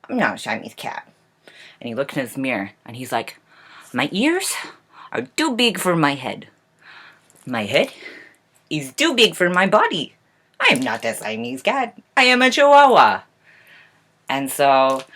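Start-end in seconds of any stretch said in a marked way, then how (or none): 0.1-1.1 lightly acted pout, lower pitch; sulky little kitten grumbling in protest. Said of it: "all pouting, and he's like". 3.9-13.2 dramatic mirror speech, pitch leaping high; defiant kitten. Acted. Kitten protests to his mirror.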